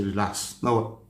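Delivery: low, soft reassurance; calming the daughter down quietly; soothing. Retold or imitated. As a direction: settle a frightened girl gently. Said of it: "Eh, I say".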